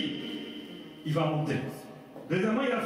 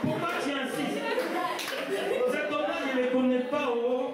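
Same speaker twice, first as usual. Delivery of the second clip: higher-pitched Ivorian accent; accent ivoirien; 7 semitones higher than usual. Shown as a demonstration. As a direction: put on an Ivorian accent, voice lifted. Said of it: "l'accent ivoirien". (accent ivoirien imité, voix aiguë)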